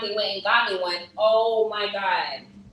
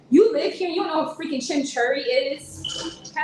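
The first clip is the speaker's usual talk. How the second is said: incredulous; 7 semitones higher than usual. Real, not acted. Streamer to a local who doesn't know chimichurri, incredulous. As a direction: challenge them in disbelief, rising at the end. Disbelief at viewer's ignorance.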